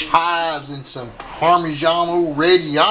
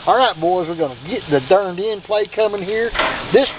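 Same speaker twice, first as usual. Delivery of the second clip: lightly voiced football coach; a hint of a coach rallying players; 4 semitones higher than usual. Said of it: "I sound like a damn football coach".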